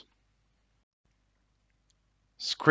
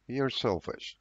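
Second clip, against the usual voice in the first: much softer, under the breath; mutter; 10 dB quieter than usual. A narrator's reading. Teacher's example, muttering the accusation. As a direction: mutter it so she barely hears. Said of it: "she muttered".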